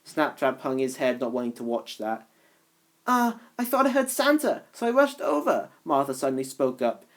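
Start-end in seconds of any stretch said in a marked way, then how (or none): 3.0-5.7 high character voice. Acted. Martha's character voice.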